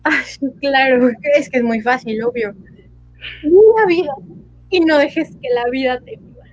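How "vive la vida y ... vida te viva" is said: louder opening, hammed-up drama; dramatic voice. Shown as a demonstration. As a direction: declaim it like a melodrama. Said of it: "ahora con voz dramática".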